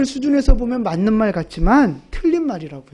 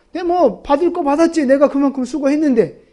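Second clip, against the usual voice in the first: mock smug shrug; 2 semitones higher than usual. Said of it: "이런 마음이니까 감사가 별로 없는".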